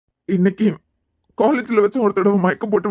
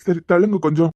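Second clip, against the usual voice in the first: crying; 2 semitones lower than usual. Acted. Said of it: "இவன் இப்படி அழுறானா?".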